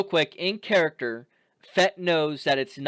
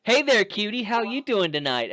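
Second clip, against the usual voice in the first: soft lazy flirty drawl; 5 semitones higher than usual. Retold or imitated. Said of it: "flirty waitress greeting".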